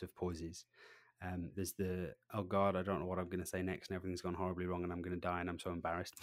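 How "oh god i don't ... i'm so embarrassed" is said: fast panicked babble; mock panic. Presenter mimicking a panicking speaker's inner voice, fast mock panic. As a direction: rush it like a flustered presenter.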